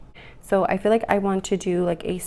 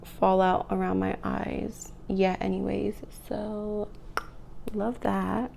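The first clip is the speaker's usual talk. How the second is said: whispering; 4 dB quieter than usual. Real, not acted. Drops into a whisper.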